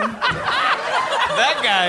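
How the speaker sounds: sports fan. Retold or imitated. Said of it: "laughing sports-fan voice".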